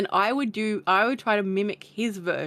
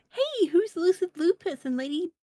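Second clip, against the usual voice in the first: excited fan; 8 semitones higher than usual. Retold or imitated. Fan greeting excitedly on stream.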